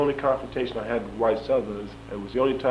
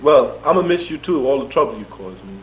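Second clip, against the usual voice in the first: lightly mimicked sheriff, loud and higher at first; hint at the sheriff, starting raised then easing; imitating Sheriff Tyson; 4 semitones higher, 7 dB louder than usual. Sheriff bids troublesome prisoner goodbye, lightly imitated raised voice. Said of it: "He said".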